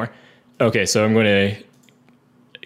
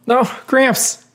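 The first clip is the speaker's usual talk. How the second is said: dismayed cry; 12 semitones higher than usual. Acted. Acted cry as companion falls.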